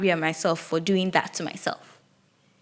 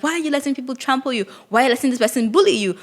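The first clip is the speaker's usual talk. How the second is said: fast, high indignant questions; mock frustrated scolding, quick and high; upset demanding; 5 semitones higher, faster than usual. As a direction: rattle off the demands, pitched up. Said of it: "I'd be like".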